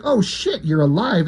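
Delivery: high, startled mock outburst; retold cry of surprise, jumping up in pitch. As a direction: act out a startled reaction.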